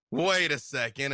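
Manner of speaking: the second take jumps up, catching on. Retold or imitated. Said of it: "I need your reptile brain to be like".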